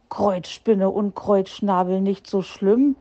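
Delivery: slow, grumbling mutter of nicht so schlimm. Acted. Herr Fuchs sourly echoes the hedgehog's nicht so schlimm, grumbling. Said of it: "brummte Herr Fuchs".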